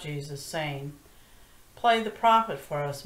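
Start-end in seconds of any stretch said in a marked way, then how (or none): 1.7-3.0 higher, louder jeer; mocking taunt. Men slapping Jesus and jeering at him, loud mocking taunt. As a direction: taunt him like a cruel bully.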